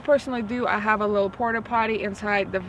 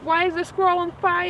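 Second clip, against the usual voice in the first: 1 high question; 9 semitones higher than usual. Shown as a demonstration. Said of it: "one more time".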